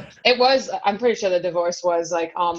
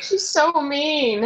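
mom crying quote; 7 semitones higher, much slower than usual. Retold or imitated. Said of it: "my mom crying and being like".

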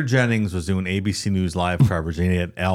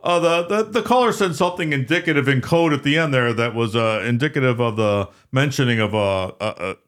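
sportscaster voice; 6 semitones higher than usual. Retold or imitated. Imitating Al Michaels on air.

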